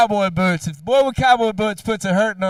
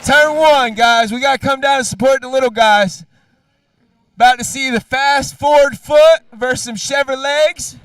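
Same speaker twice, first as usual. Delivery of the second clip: calling out to the crowd; 3 semitones higher, 5 dB louder than usual. Real, not acted. Announcer calling kids to the track.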